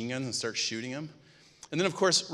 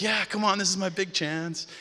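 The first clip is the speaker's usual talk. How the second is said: higher and louder, eager; excited; 7 semitones higher, 4 dB louder than usual. Retold or imitated. Rob eager to preach on his big chance, excited. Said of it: "I was all excited".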